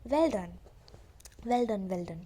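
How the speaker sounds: loud, cheering well done; encouraging praise. Retold or imitated. Teacher praising stammering Bholi, loud encouraging cheer. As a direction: cheer her on like a proud teacher. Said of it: "उसने encourage करा".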